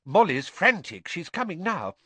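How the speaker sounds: high, hurried news while puffed; panting. A narrator's reading. Father tells boy about his wife, panting. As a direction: blurt it out, short of breath. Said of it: "Mister Weasley panted".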